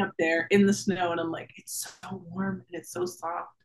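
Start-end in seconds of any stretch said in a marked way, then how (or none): 1.6-3.5 hushed, floating wonder; blissful and dreamy. Retold or imitated. Quoting blissful floating thought.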